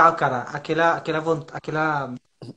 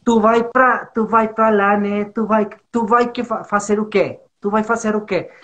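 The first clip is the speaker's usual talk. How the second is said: higher, louder catarinense "tu vai"; imitated Santa Catarina accent; 4 semitones higher, 4 dB louder than usual. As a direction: mimic the southern "tu" talk emphatically. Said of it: "aí que eu fiquei falando isso". (imitando sotaque catarinense, mais alto)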